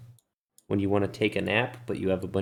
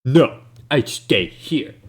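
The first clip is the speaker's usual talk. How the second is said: slow, louder refusal; defiant Ben Dubas; 4 semitones higher, 8 dB louder, slower than usual. Acted. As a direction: plant your feet and refuse.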